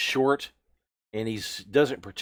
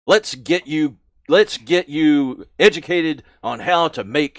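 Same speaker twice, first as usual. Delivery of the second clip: contemptuous orc boss; 2 semitones higher, 7 dB louder than usual. Acted. Orc boss insulting the recruit's looks and wits, loud. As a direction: look down on the dim recruit.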